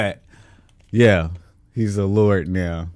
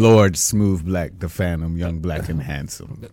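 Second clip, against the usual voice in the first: lower, trailing off in a badly faked English accent; 5 semitones lower, slower than usual. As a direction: announce a lordly title in mock English. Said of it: "it's the English accent".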